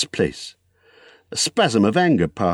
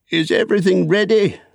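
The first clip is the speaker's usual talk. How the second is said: high, eager call; eager question; 11 semitones higher, 4 dB louder than usual. Acted. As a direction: check brightly before setting off. Bilbo calls to the dwarves.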